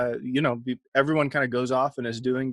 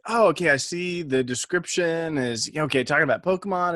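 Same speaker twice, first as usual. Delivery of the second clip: mock new listener checking in, higher; imagined new listener; 4 semitones higher than usual. Co-host imitating a new listener hopping on, mock interest. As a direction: play a newcomer reading along, picking up speed. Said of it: "They hop on and like".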